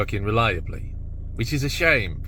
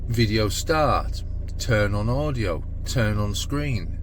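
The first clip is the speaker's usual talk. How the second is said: clear voice command; slower than usual. Acted. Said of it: "my more clearer telephone video voice".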